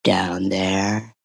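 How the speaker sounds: "down there" called out low as a hammed-up punchline; mock shout. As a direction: bark the tagline.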